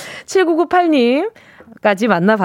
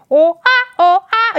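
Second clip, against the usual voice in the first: imitating window-wiping squeak; 7 semitones higher, much slower than usual. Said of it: "이런 느낌이잖아".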